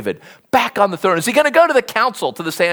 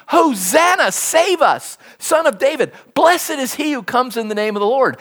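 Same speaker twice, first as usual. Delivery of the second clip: raised pitch, mild imitation of a crowd's shout; shouted acclamation; 4 semitones higher than usual. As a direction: proclaim it like the crowd, without full volume. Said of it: "they're shouting Psalm eighteen".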